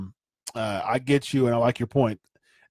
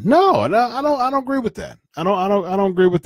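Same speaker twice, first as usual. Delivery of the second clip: heated disagreement; 6 semitones higher, 4 dB louder, faster than usual. Real, not acted. Objecting to the booking idea.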